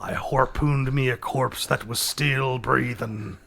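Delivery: put-on slow ominous old sailor; sea captain voice. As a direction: spin a spooky tale slowly. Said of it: "a different sea captain voice".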